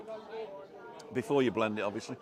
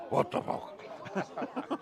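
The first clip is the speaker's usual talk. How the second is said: mock shocked squeal; 11 semitones higher, 5 dB quieter, much slower than usual. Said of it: "And he'll go".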